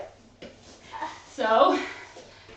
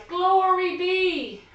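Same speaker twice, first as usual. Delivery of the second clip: high, slow, loud "Glory be"; old lady cry; 6 semitones higher, 6 dB louder, much slower than usual. Acted. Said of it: "the little old lady cried".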